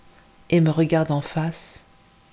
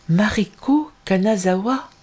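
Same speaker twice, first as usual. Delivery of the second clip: higher, slow astonished question; stunned; 4 semitones higher than usual. Acted. Girl repeating her new false name, stunned. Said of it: "Stupéfaite".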